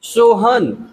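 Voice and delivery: सोहन slowly split, so... han; slow two-part सोहन with a gap after so; syllable by syllable. Shown as a demonstration. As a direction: stretch सोहन into two separate beats. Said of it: "उन शब्दों की spelling बना लेंगे".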